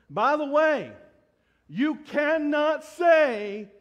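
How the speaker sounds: loud, slowed, high preaching; emphatic shout. Real, not acted. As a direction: hammer the point home to the congregation.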